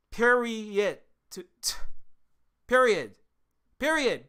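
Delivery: loud, emphatic shout. Real, not acted. Streamer shouting at chat to be heard. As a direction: yell the word to end it. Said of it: "So I'm trying to say it as loud as possible".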